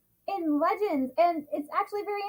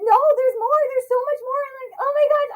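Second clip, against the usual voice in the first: higher, louder eager gush; delighted insistence; excited; 6 semitones higher, 7 dB louder than usual. Real, not acted. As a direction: fan insisting there's more to come. Fan gushing about more Mandalorians.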